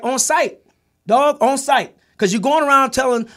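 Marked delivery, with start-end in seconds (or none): 0.0-2.0 loud, high threat of a fight; fighting words. Retold or imitated. Telling his friend he'll fight him on sight, loud threat. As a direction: warn him you'll confront him on sight. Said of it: "I was like".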